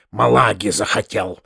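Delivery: low disgruntled grumble; grumbling under breath. A narrator's reading. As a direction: grumble half to yourself. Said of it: "проворчал он чуть не вслух".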